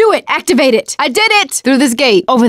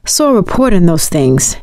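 usual speaking voice

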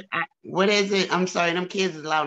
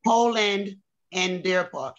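slow, careful repeat; slower than usual. Real, not acted. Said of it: "Polish Spring?".

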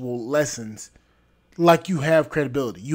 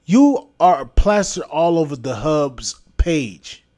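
angry; 5 dB louder than usual. Real, not acted. Angry rant at a woman.

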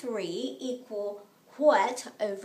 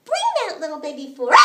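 playful call; 5 dB louder than usual. Acted. Playful chant to the class.

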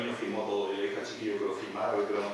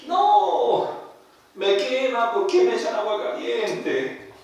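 put-on much higher, louder, a burned girl crying out; pained cry; 10 semitones higher, 7 dB louder, much slower than usual. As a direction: yelp like holy water burns. Possessed girl burned by water. (grito agudo de dolor, imitado)

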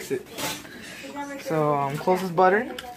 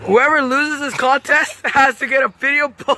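laughing; 5 semitones higher, 4 dB louder than usual. Real, not acted. Laughing while announcing contest.

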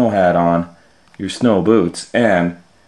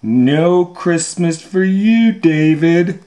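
mild mock scolding; 8 semitones higher, 3 dB louder than usual. Scolding naughty child.

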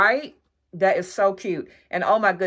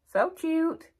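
high squeaky gush over a cute find; squealing delight; 11 semitones higher than usual. Real, not acted. Shopper gushing to viewers over cute decor, high squeal. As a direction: squeal it like it's too cute to bear.

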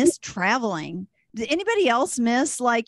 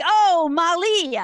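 discouraging teachers; 5 semitones higher than usual. Retold or imitated. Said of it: "They would all be like".

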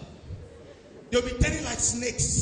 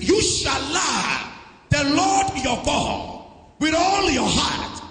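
slow, loud proclaiming of the verse; slow, loud scripture proclamation; scripture preached aloud; 4 dB louder, slower than usual. Real, not acted. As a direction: proclaim it to the whole church.

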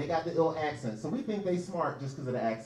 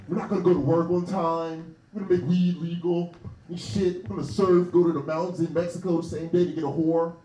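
a lightly voiced surfer-bro hippie, louder; laid-back hippie; 3 dB louder than usual. Comic imitating California hippies founding a city, lightly voiced surfer bro. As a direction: play a stoned California bro making plans. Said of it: "They're like".

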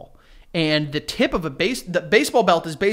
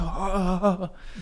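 imitated shaking noise; 5 dB quieter than usual. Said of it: "shaking the camera, like".

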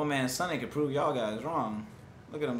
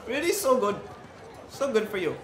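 market vendor call; 9 semitones higher, 4 dB louder than usual. Acted. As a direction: hawk your apples to passers-by. Voicing a market fruit seller.

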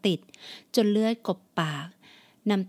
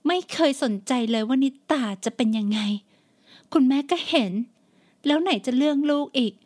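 shrill melodramatic sobbing; 4 semitones higher than usual. Acted. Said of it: "เอ่ยตอบกลับด้วยใบหน้าอาบน้ำตา".

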